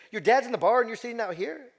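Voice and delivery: high, loud, incredulous question; acted disbelief. Older lady questioning a boy left outside a bar, acted disbelief. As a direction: imitate a shocked older lady. Old lady shocked at child alone.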